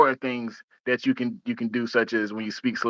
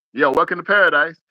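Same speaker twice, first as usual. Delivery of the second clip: upbeat greeting; 5 semitones higher, 4 dB louder than usual. Shown as a demonstration. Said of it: "you compare that with the".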